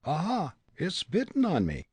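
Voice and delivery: high Irish brogue, indignant; outraged cry. A narrator's reading. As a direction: exclaim as an affronted Irishman. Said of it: "the Hibernian cried".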